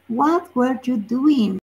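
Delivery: slow, careful title reading; slow, deliberate model sentence; read out slowly. Shown as a demonstration. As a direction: spell out the phrase what were you doing? slowly for the class.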